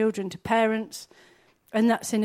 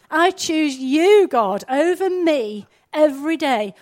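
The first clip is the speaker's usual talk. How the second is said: fervent prayer; 3 semitones higher, 6 dB louder than usual. Shown as a demonstration. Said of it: "We need to actively say to him".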